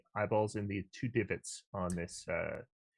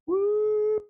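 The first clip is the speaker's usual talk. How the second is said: very high joyful whoop; squeaky cheer; 7 dB louder than usual. Acted. Party cheers as barrier vanishes.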